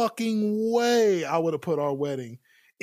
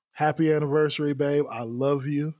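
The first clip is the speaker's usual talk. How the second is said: romantic. Real, not acted. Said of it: "for your anniversary gift".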